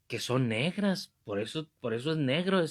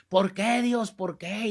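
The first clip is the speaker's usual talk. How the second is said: high mock cry that fades at the end; retold anguished cry; 6 semitones higher, slower than usual. Man clutching his liver cries to God, mock anguished cry. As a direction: imitate a man wailing up to heaven. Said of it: "como aquel que le estaba gritando".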